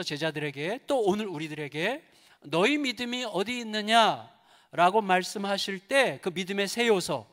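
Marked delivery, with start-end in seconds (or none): 2.4-5.0 solemn slow question. Retold or imitated. Quoting Jesus, solemn.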